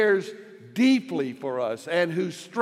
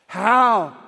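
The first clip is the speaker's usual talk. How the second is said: a lone "How" raised and loud; "How" standing alone; emphatic how; 3 semitones higher, 6 dB louder than usual. Shown as a demonstration. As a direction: land "How" by itself before the question. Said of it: "And there's a difference".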